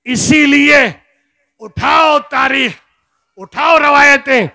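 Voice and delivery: impassioned sermon, ringing out to the crowd; full-force preaching. Acted. Preacher challenges a crowd over the kalma, full-force preaching. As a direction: declaim it insistently, phrase by phrase.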